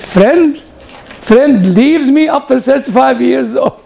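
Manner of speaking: mock furious master, voice up; a gentleman turned wild beast at his butler, mock shouting; imitating an angry shout. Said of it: "this gentleman became a wild beast".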